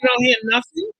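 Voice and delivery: choppy voice on a bad line; radio breaking up. Real, not acted. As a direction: voice cutting out over the call. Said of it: "Now they're breaking your, breaking up your voice".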